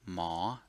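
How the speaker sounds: ma with a Thai rising tone, dipping then climbing. Shown as a demonstration. Teacher modelling ma on a rising tone. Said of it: "it's a rising tone".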